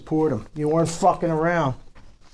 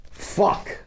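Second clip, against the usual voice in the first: breathless whispered curse; awed whispered fuck; stunned whispered curse; 2 semitones higher than usual. Acted. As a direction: whisper it in disbelief at the numbers. Stunned by ledger totals.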